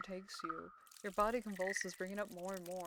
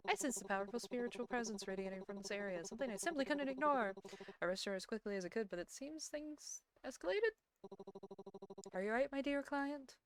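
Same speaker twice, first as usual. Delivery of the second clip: lightly voiced mystic, lilting upward at phrase ends; concerned spirit medium; 4 semitones higher, 5 dB quieter than usual. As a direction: play a formal, solicitous medium.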